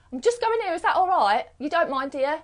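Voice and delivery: high, hesitant asking for permission; seeking approval, nervous and apologetic; meek people pleaser. Shown as a demonstration. A people pleaser timidly asking a friend's permission, high and unsure.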